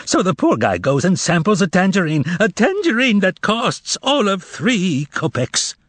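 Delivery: high mocking complaint; indignant harangue. Korovyov haranguing the shoppers, high and indignant. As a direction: stir the crowd against him.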